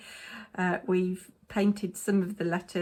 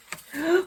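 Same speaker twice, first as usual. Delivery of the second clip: sharp gasp; 10 semitones higher, 6 dB louder than usual. Real, not acted. Nearly spilling the beads.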